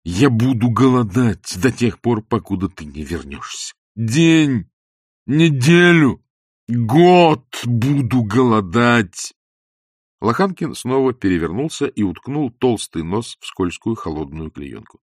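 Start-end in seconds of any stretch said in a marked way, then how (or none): 0.0-9.3 loud vow, building and drawn out; wretched husband's cry. A narrator's reading. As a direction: proclaim each term ever more grandly. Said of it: "закричал несчастный муж". (громкая протяжная клятва страдальца)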